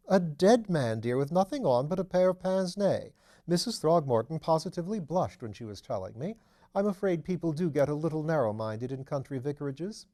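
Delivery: lightly voiced duchess, amused and chatty; mother describing the body, lightly voiced chatty duchess; gossiping duchess. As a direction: share the scandal with mild amusement.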